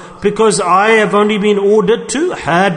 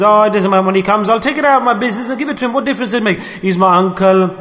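careless excuse; 3 semitones higher than usual. Pretend. Careless businessman excusing misuse.

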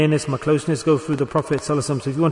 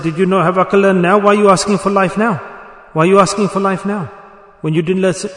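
raised, louder scolding questions; retold rebuke; 4 semitones higher, 4 dB louder than usual. Preacher rebukes the man begging for more life, sharp raised scolding. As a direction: scold him for asking too late.

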